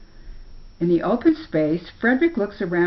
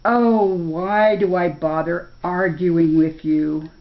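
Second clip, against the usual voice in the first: weary bear; 4 dB louder than usual. Acted. Bear sighs at the animals.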